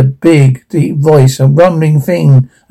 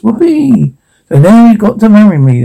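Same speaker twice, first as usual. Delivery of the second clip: high, fast gloating cheer; gleeful triumph; 6 semitones higher than usual. Acted. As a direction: crow over the prince. Sister gloats, shoe fits.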